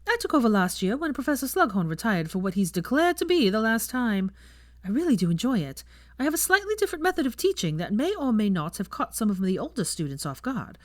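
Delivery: proud, breezy professor; chatty young witch. Acted. Teacher brags about her lessons to guests, breezily.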